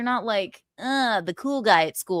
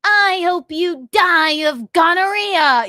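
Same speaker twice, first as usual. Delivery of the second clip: mock angry quote; 8 semitones higher, 6 dB louder, slower than usual. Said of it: "He goes".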